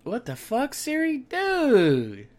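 sudden high, loud shout at Siri; startled outburst. Real, not acted. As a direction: caught off guard, yelling. Siri interrupts unexpectedly.

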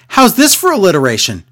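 a hint of a self-pleased announcer; smug Byron impression. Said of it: "He goes".

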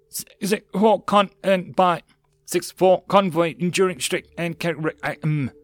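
high, choppy radio transmission; breaking-up radio. Acted. Command answering over a failing radio, breaking up. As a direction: chop the words like bad reception.

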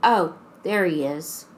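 put-on flat, lifeless child voice; monotone voice. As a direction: say it with no feeling at all. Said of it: "in a monotone voice".

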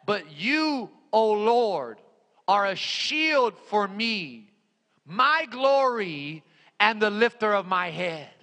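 slow, deliberate recitation with pauses; measured scripture reading. Real, not acted. Preacher quotes the Psalm to the congregation, measured scripture reading. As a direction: give each phrase room.

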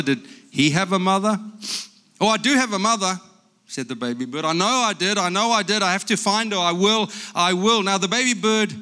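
lively picture-book reading with character voices; reading to children. Acted. Grandpa reading a picture book aloud to grandchildren, lively. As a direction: read it like a bedtime story to grandkids.

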